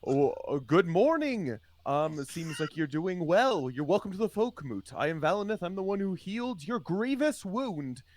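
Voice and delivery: mildly acted cheerful healer; lightly voiced Valineth. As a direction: greet a patient with a smile. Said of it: "Valineth smiles at him and says".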